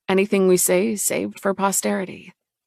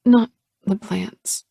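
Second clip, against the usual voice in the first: smiling voice; 4 semitones higher, 4 dB louder, slower than usual. Acted. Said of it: "a smile in her voice".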